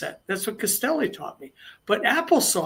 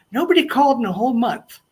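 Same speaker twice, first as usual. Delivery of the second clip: office manager's announcement; 6 semitones higher, 5 dB louder than usual. Retold or imitated. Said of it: "she turns and goes".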